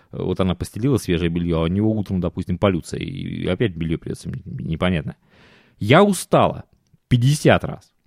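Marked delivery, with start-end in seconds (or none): 5.8-6.7 lightly voiced complaining wife; a hint of a tired, whining wife; whiny wife voice. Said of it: "аргументы, которые она приводила".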